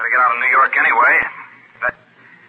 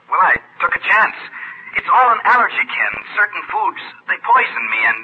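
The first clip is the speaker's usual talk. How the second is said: higher-pitched, eager outpouring; excited; 6 semitones higher than usual. Acted. Tom telling Ken about his diagnosis, excited. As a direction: spill the good news eagerly. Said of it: "I'm excited".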